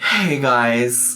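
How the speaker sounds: slow, mock-mournful performative sigh. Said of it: "let me recreate it".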